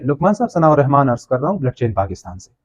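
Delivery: polite formal greeting on a phone call; polite formal intro. Shown as a demonstration. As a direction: introduce yourself with respect. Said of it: "same thing को अगर मैं refresh करूँ".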